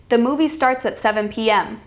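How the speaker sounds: statement settling downward on "P M"; matter-of-fact fall at the end on "P M"; falling intonation. Shown as a demonstration. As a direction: let "P M" drop to a close. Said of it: "That's falling".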